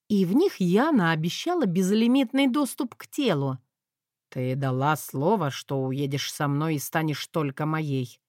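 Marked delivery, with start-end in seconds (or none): 4.3-8.2 lightly voiced demanding lord; possessive dragon lord. Dragon claims her.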